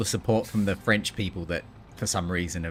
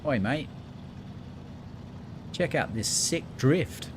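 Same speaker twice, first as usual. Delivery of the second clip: higher, drawn-out mock Aussie accent; fake Australian accent; 6 semitones higher, 4 dB quieter than usual. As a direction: ham up a broad Australian accent. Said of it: "my fake Australian accent".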